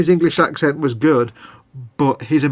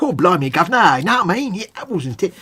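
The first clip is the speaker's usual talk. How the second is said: mock Cockney; 5 semitones higher than usual. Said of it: "an American doing an English accent".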